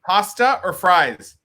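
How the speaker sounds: slow, careful "Pasta or fries?" spelled out for the listener; slow it down so he catches it; slow clear repeat. Shown as a demonstration. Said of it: "Pardon me?".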